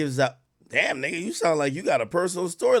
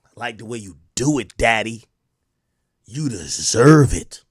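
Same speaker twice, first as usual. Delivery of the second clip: mock impression of a rapper; 7 semitones lower, 6 dB louder than usual. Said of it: "I heard".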